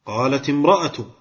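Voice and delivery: "قالت" ending in "ti", linked into "امرأة"; kasra on the ta. Shown as a demonstration. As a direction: join "قالت" to "امرأة" with a short i. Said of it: "ومن الأمثلة على الكسر". (كسر تاء "قالت" عند وصلها بـ"امرأة")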